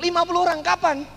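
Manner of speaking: high, loud startled questioning; acted disbelief, voice jumping up; shocked. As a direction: react as if hit with an impossible demand. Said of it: "giliran dia yang shock".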